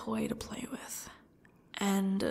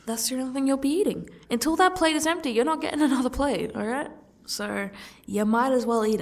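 stern scolding; 4 semitones higher, 4 dB louder, faster than usual. Acted. Captor scolding captive over food.

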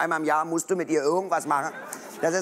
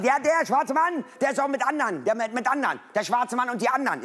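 put-on girlfriend's voice; 4 semitones higher than usual. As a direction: play her as sure she's right.

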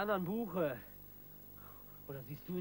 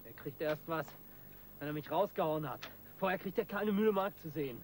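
rising to a louder angry outburst; getting angry; 4 dB louder than usual. Acted. Crook ranting about his lawyer, building anger. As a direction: build from firm to furious.

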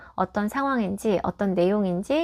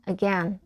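"again" stressed on the second syllable; weak first syllable, strong "gain" in "again"; 2 semitones lower, 3 dB quieter than usual. Shown as a demonstration. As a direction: say "again" as uh-GEN. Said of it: "이음절 강세 두시고".

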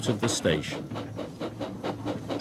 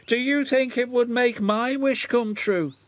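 delighted; 11 semitones higher than usual. A narrator's reading. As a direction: gush with wonder. Henry delighted by wishing tree.

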